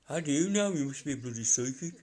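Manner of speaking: a light Birmingham accent, voicing the bloke; quoting a Brummie bloke in his accent. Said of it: "it's just his accent".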